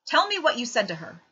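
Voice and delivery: father demanding answers, holding back anger; barely controlled temper. A narrator's reading. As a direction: keep the lid on your temper. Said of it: "fighting to keep his temper".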